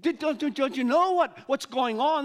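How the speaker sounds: can't believe he hasn't heard; incredulous disciples. Acted. Disciples ask the stranger in astonished disbelief. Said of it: "they looked at him".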